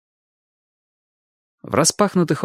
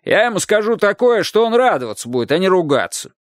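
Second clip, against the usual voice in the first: high, eager shouted promise; calling out; 8 semitones higher than usual. A narrator's reading. Roof man persuades the wife, eager call. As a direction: sell the good news. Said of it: "крикнул мужчина".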